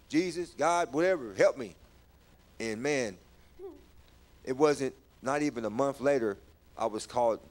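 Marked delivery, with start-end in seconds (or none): 0.1-1.7 raised public cry for help; proclaimed plea. Retold or imitated. Man praying publicly in front of everybody, pleading aloud. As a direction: re-enact calling out to God in front of everybody. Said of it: "I started proclaiming".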